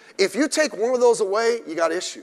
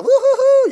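high, loud woo-hoo-hoo; mock cheer; 11 dB louder than usual. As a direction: whoop like a giddy crowd to mock it. Mocking emotional church cheering.

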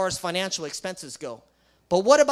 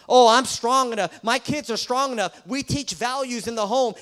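louder, higher mocking voice of a confident parent; mock proud parent; 4 semitones higher, 5 dB louder than usual. Preacher mocks a confident parent, louder and higher. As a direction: imitate a smug parent brushing it off.

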